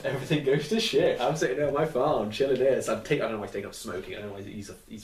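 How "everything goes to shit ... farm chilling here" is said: imagined Hawkeye. Pretend. Imagines retired Hawkeye complaining to team.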